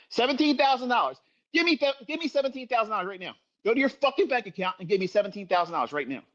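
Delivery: berating a son who blew the money, partly rushed; Mister Hyde anger. Retold or imitated. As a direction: tear into him like an angry father. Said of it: "I'm Mister Hyde".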